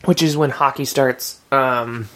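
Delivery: talking between sips of water; words around a gulp of water; while sipping a drink. Real, not acted. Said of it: "I'm drinking water and talking at the same time".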